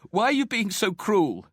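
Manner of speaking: high-pitched, indignant protest; demanding. A narrator's reading. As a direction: demand an answer, voice high and upset. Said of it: "she demanded".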